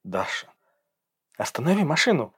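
shouting at the driver to stop the car; girl's shout. A narrator's reading. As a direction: cry out high for him to stop. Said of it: "закричала девушка". (крик девушки)

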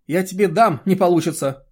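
loud, high, threatening snap; angry bark. A narrator's reading. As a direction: roar it back as a scolding. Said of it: "рявкнула Берта".

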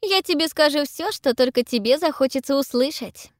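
talking while gulping berries; wolfing down food. A narrator's reading. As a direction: speak with a full mouth. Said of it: "жадно глотая ягоды".

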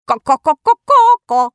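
высокое громкое куриное кудахтанье; кудахтать, как курица. A narrator's reading. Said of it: "кудахтая и приплясывая на одной ноге". (высокое громкое кудахтанье курицы)

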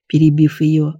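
usual speaking voice

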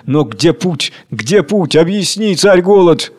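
plaintive, rising appeal; sorrowful. Acted. Worker asks the king for a path, sorrowful. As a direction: plead sadly for an answer. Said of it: "добавляет печально".

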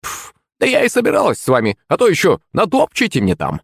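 high, mocking old hag; sneering at the clumsy guests; snide old crone. A narrator's reading. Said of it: "ехидно ответила старушка". (ехидный высокий голос старушки)

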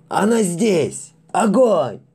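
high, loud, slow panicked orders; terrified howling. Acted. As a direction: howl the command in fear. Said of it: "взвыл ближайший матрос".

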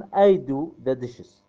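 very slow, word by word; slow model sentence. Shown as a demonstration. Teacher modelling the example for students, very slow. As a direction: spell it out for learners. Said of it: "teacher models English for class".

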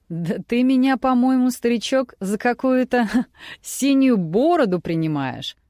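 amused, laughing through the words; a mocking grin in the voice; smirking. A narrator's reading. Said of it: "ухмыльнулся старый журналист".

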